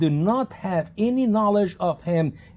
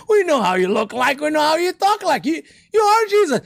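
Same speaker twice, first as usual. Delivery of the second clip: rising, louder taunting insistence; mock him as he denies it; mocking soldiers; 9 semitones higher, 4 dB louder than usual. Soldiers jeering at the captive Judas, rising and loud.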